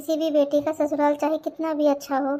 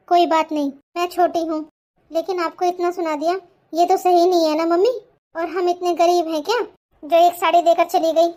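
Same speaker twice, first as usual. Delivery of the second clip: put-on loud, hurt complaint from a little girl; indignant child; 3 semitones higher, 5 dB louder than usual. Girl to mother about the aunts, loud and hurt. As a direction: let the hurt come out loud.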